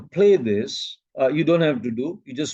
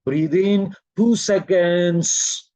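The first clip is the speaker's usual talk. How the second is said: evenly drawn-out count, lengthened ending; measured breathing cue; slower than usual. Shown as a demonstration. Teacher guiding a two-second breath, measured and drawn-out. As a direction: pace a short breath with the words. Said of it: "between two seconds".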